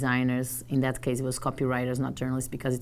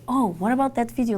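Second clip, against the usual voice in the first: editor; 9 semitones higher, 4 dB louder than usual. Retold or imitated. Editor asks her for videos.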